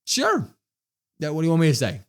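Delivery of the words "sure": noncommittal, drawn-out sure. Real, not acted. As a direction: shrug it off with one word. Shrugging reply to the matchup.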